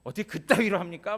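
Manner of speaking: imitated angry protest; hostile complaint. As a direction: confront the pastor accusingly. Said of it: "대적자가 돼가지고".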